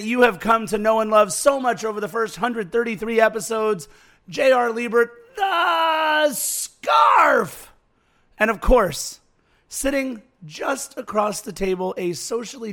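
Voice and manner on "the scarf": high, drawn-out nickname announcement; announcer call. Acted. Host introducing himself to listeners, drawn-out announcer call. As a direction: stretch it out like a ring announcer.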